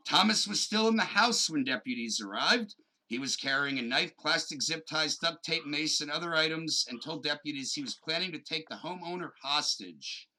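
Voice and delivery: authoritative seventies-style newsman read; newscaster voice. Pretend. Podcaster reading a breaking kidnapping story to his co-host, newscaster voice. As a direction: read it out like an old TV news anchor. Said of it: "break out my newscaster voice".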